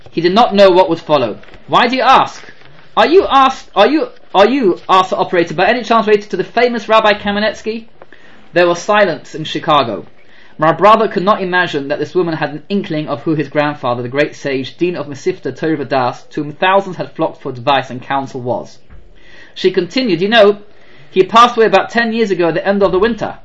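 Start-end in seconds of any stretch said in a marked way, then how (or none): 1.7-4.8 higher, amazed southern hotel operator, louder; half-hearted southern accent, stammering in surprise; southern black accent. Retold or imitated. Hotel operator asking the caller, amazed southern accent. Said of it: "I do not have a good southern black accent". 5.5-7.9 put-on southern accent. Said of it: "I do not have a good southern black accent". 20.2-23.4 put-on southern accent. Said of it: "I do not have a good southern black accent".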